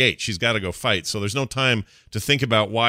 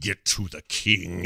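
mock jittery, trembling, soft, slow, shaky voice; 3 semitones lower, 5 dB quieter than usual. Recounting an animated scene, imitating shaky Nathanos. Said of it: "he says it in this very jittery, sort of shaky way".

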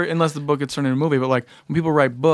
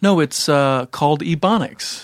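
ordinary talk

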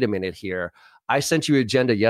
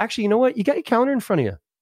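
very high, fast, really pleasant tone; 12 semitones higher than usual. Showing listeners how to phrase their reply: really nice tone. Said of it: "you do this with a really nice tone of voice".

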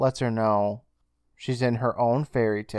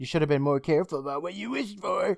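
nasty, pitched-up taunting voice; 6 semitones higher, 4 dB quieter than usual. Retelling how Bobcat turns nasty and taunts Jill: imitating Bobcat turning nasty. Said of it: "Bobcat's just turning into an asshole and saying".

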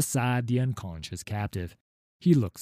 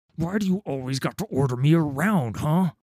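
high, irritated, snapped delivery; 6 semitones higher than usual. Reading a story aloud, turning on a partner who gives orders: snapping. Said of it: "I snap".

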